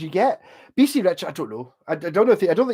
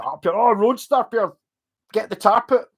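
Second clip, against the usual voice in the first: high, loud mock plea to Pierre; mock pleading; 6 semitones higher, 4 dB louder than usual. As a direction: beg theatrically for the tarp. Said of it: "You say".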